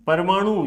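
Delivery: परमाणु with weight on the long मा; stress on long vowel. Shown as a demonstration. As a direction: lean on मा in परमाणु. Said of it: "वहीं पर ज्यादा जोर दिया जा रहा है".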